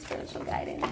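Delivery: breathy whisper to the spirits. Real, not acted. Reader whispering a plea to spirit for guidance, hushed. Calling on spirit mid-reading.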